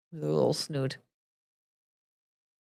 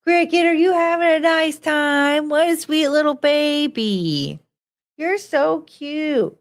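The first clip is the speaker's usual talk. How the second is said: high, slow cooing at the dog; sugary pet voice; 5 semitones higher, slower than usual. Real, not acted. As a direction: coo at a sweet puppy. Talking to her dog.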